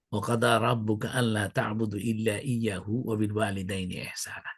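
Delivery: understated, even recitation in Arabic; Quran recitation. Acted. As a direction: recite evenly, dropping very soft on the last word.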